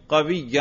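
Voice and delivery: قوی said as "qawiyyan"; accusative ending. Shown as a demonstration. Teacher modelling nasb for pupil, accusative ending. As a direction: end قوی in "-an" over a doubled y. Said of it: "نصب پہ تلفظ کرو".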